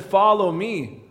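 a drawn-out invitation; slow calling voice. Retold or imitated. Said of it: "Jesus called and said".

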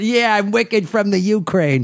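hammed-up fake Ukrainian accent, slowed; slow, silly Ukrainian-Boston put-on accent; bad Ukrainian accent; mock Ukrainian accent. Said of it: "That's my Ukrainian".

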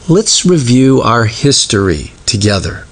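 gentle, measured retelling of God's words; kindly. Retold or imitated. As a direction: say it kindly, like a patient father. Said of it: "God says so kindly".

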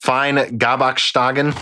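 lightly put-on German pronunciation; mock German accent. Host reading snack labels, mock German accent. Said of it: "do offensive German accents right now".

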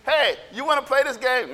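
casual, slightly lifted question; a hint of an eager kid; lightly acted kid invitation. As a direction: ask a playmate to join in. Imitating kids' overheard invitation.

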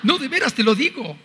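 laughing high, amused. Real, not acted. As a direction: laugh it out in disbelief. (riendo con asombro)

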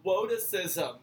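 lightly voiced cartoon hunter; Elma Fudd. Repeating the ailment when asked, cartoon W for R. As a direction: say "Woticism" with W for R. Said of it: "I'm Elma Fudd".

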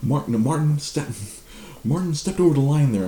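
high, loud hurried reassurance; high loud backpedaling boss; flustered boss. Retold or imitated.

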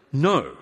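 NO said as one firm, falling word; emphatic no. Acted. Giving the answer James expects, emphatic. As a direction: land hard on a standalone "no". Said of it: "is this emphatic".

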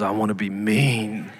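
a hint of a possessed child growling her answer; demonic voice. Dad retelling his three-year-old's reply, mock demonic voice. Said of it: "in a demonic voice".

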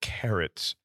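a hint of a grand noble; regal voice. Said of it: "You sound very regal".

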